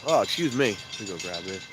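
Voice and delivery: congested, blocked-nose voice; talking through a stuffy nose. Real, not acted. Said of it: "I'm stuffy tonight".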